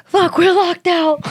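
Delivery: high, slow mock cry of dismay; retold dismay. Retelling being locked out in pouring rain, mock dismay.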